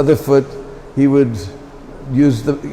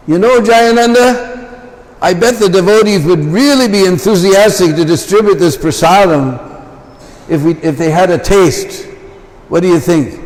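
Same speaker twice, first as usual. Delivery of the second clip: higher, coaxing and sly suggestion; coaxing friend; 4 semitones higher than usual. Retold or imitated. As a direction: talk him into it with a grin. Keshava coaxes Jayananda in truck.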